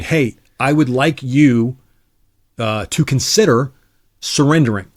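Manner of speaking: slow, dainty, over-polite request; mock effeminate politeness. Psyops broadcast to Iraqi soldiers, mock effeminate and slow. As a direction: ask them ever so delicately to surrender. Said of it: "it's effeminate".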